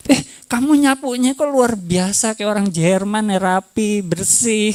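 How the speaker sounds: acted wonder, opening high; demonstrated praise. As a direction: admire a partner's small effort. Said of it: "kata-kata pujian".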